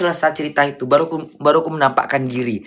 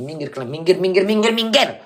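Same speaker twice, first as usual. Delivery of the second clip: acted yelling; 2 semitones higher than usual. Imagining shoving bystanders away, mock yelling that climbs in pitch. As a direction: act out pushing a crowd aside, pitch climbing. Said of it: "Teriak-teriak aku".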